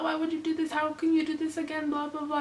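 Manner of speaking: high-pitched mock nagging; scolding mom. Daughter mimics mom's reaction to the pregnancy, high-pitched mock scolding. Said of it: "My mom was more, like, verbal".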